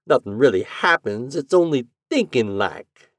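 put-on a sly old landlady drawling. A narrator's reading. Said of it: "drawled the metallic voice".

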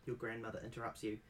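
ordinary delivery

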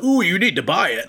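oversell it like a hype man; mock hype. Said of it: "hype that up".

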